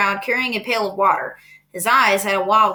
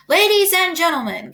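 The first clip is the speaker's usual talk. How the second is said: higher, ringing call for attention; announcer; 9 semitones higher, 4 dB louder than usual. A narrator's reading. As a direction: call the crowd to order. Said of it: "continued the loudspeaker".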